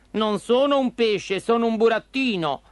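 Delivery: high puppet voice, firmly correcting; protesting puppet. Acted. Pinocchio correcting the fisherman, high and protesting. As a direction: insist in a high little voice.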